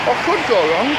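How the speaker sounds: ironic repeat. Retold or imitated. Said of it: "I thought".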